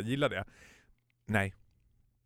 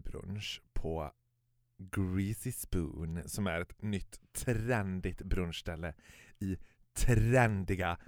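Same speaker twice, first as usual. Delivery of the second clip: slow, soft mock-sentimental telling; mock tearful; 4 semitones lower, 4 dB quieter, slower than usual. Telling a friend about brunch, mock-tearful and slow. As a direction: draw it out as if close to tears, jokingly. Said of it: "Börjar du gråta nu?".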